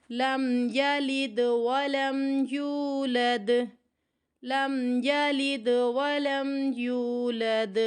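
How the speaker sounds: لم یلد ولم یولد drawn out and joined without stopping; correct slow recitation. Shown as a demonstration. Teacher recites correctly after showing the error. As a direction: recite smoothly with no stop on لم. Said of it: "لام پر رکنا بھی نہیں ہے".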